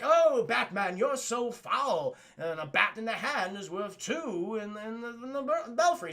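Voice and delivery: hammed-up bird-pun villain; lightly voiced cartoon Penguin, slow; sneering villain, drawn out; mock Penguin voice. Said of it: "He constantly makes bird puns".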